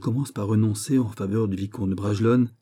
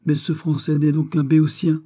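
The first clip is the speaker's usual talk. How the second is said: higher, louder indignant outburst; exasperated exclamation; 6 semitones higher, 5 dB louder than usual. A narrator's reading. Miss Stuart about the reluctant Frenchman, exclaiming indignantly. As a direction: cry out in acted exasperation. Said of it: "s'écria Miss Stuart".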